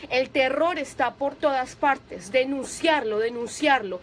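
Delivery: slow, weighty reading of the verse; solemn scripture reading. Acted. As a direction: read the psalm slowly, with gravity. Reads psalm slowly, preaching. (lectura solemne y pausada)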